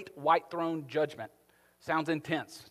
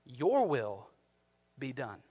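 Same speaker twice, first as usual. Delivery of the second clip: mild voice of God; 3 semitones lower, slower than usual. Acted. God answers the unsurrendered, low and grieving. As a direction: let it fall heavy and sad. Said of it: "he will say to us".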